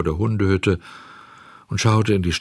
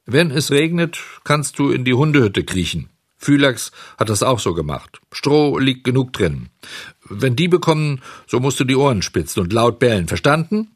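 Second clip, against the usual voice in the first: barsch befehlend; 5 semitones higher, 3 dB louder than usual. Acted. Bauer befiehlt grob.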